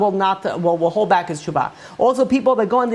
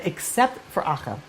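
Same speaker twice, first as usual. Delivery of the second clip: ominous hush; 7 dB quieter than usual. Retold or imitated. Heavenly voice adds the exception.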